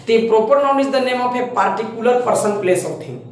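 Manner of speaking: slow, deliberate dictation of the definition. Shown as a demonstration. Teacher dictating the proper noun definition, slow. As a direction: read it out slowly so they can copy.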